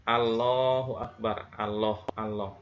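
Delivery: "Allahu Akbar" said slowly with an L that is not heavy enough; weak tafkhim. Shown as a demonstration. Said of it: "sebagian masyarakat Indonesia ada".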